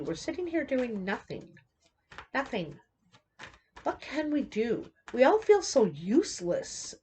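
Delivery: mock frustrated crowd. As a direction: complain up high as if speaking for all of us. Voices everyone's frustration.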